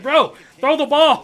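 loud, slow retold yell at the pitcher; mock yell. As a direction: bark it out slowly like you're reliving it. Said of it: "I was like".

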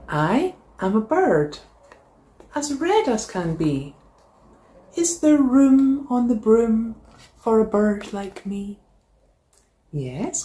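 lively storybook read-aloud; animated picture-book narration; reading to children. A narrator's reading. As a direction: read it like story time for a class. Teacher reads picture book aloud.

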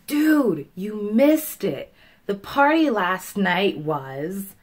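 loud, drawn-out "dude" to a friend; excited friend. Acted. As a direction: rave slowly and emphatically about what they missed. Example of friend raving about party.

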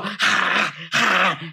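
mock dance laugh. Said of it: "I'm just gonna go".

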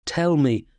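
a moderate acted shout; shouted demand. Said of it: "I shouted".

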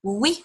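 teacher modelling Oui for the class to echo; French oui. Shown as a demonstration. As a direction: model Oui for children to repeat. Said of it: "can you say oui".

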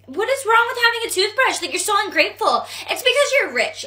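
put-on outrage at an ungrateful friend; indignant. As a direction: act affronted, pitch jumping up. Friend scolded over gift, acted quarrel.

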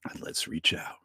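hushed seance whisper. Acted. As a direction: whisper it, lights off.

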